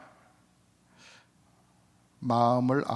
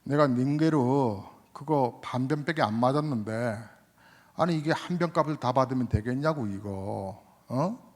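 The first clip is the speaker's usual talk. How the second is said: raised, pitched-up indignant retort; arguing patient; 2 semitones higher, 3 dB louder than usual. Retold or imitated. Patient arguing over the bill, raised indignant complaint. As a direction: press the doctor, half-mock indignant. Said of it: "따지더랍니다".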